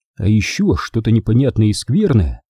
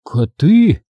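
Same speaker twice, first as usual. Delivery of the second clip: put-on slightly raised boyish voice; matter-of-fact boy, pitched up a little; boy explaining; 5 semitones higher, 4 dB louder than usual. A narrator's reading. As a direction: explain firmly in one word. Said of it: "объяснил Чарли".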